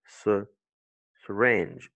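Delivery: "se" as a weak "suh", pause, "range"; schwa then stressed syllable. Shown as a demonstration. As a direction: split "se range" into its two syllables. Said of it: "on utilise le son schwa".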